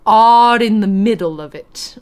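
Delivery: flick the R in "R in the middle of it"; old-timey posh "R in" with a tongue-tap; tapped R. Shown as a demonstration. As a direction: link "R in" with a lightly tapped R. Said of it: "it would have been like".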